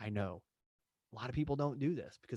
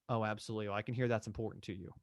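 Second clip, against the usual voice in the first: empathetic validation; faster than usual. Shown as a demonstration. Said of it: "validate that they were heard".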